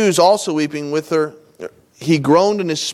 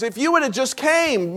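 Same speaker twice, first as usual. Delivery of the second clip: retold reproach; 5 semitones higher, 4 dB quieter than usual. Retelling Martha's complaint to Jesus.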